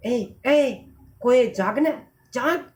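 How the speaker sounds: lightly acted call to rouse a sleeper; waking someone. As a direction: nudge the sleeping crow awake with a call. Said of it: "कोए को जगाते हुए". (सोते को हल्के से जगाते हुए)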